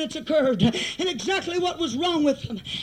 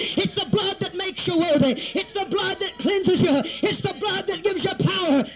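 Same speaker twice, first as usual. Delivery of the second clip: full-force preaching. Real, not acted. Preacher to congregation on the power in the blood, preaching at full force. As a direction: preach it hard, building to a shout.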